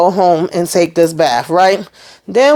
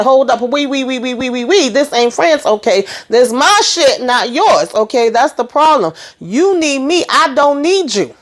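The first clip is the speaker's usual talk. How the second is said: higher-pitched sassy putdown; mock confrontational, pitched up; retold telling-off; 4 semitones higher than usual. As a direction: act out setting someone straight. Retold confrontation, Chastity putting friend down.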